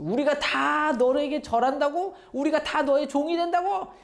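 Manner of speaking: put-on high-pitched, outraged older brothers; acted indignant anger. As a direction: throw the questions back in disbelief, building to a scolding cry. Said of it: "막 화를 냈죠".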